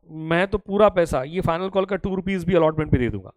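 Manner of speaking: a hint of an irritated shareholder; mock angry student. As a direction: play the annoyed student, half-serious. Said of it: "उसको बड़ा गुस्सा आया".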